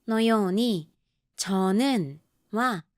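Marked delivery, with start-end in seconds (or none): 1.3-2.2 저는 with 저 low and 는 high; low-high tune. Shown as a demonstration. Teacher isolating the word for learners, low then high. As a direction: keep 저 down, lift 는. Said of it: "一番目のチョは低く、二番目のヌンは高く".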